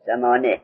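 ثمانیه cut to "samane", without its ya; kasra on the nun. Shown as a demonstration. Teacher repeating the student's answer, nun with kasra. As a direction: end ثمانیه on "ne", no "-iya". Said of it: "لکن مع کسر نون".

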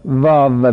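واو with teeth on the lip, a v. Shown as a demonstration. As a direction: bite the first sound of واو into a v. (تلفظ واو با دندان، مثل فارسی)

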